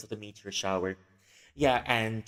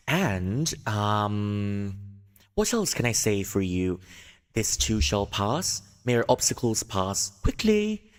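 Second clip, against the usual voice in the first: lightly voiced louder announcer read; newscaster voice; 3 dB louder than usual. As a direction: announce it like a news anchor to the shop. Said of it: "put on my best newscaster voice".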